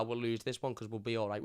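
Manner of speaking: ordinary talk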